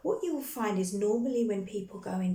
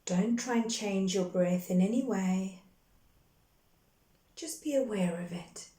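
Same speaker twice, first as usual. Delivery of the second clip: calm, measured meditation guide with long pauses between phrases; guided meditation. Real, not acted. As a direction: guide them gently into breath and grounding, unhurried. Leads a guided grounding meditation.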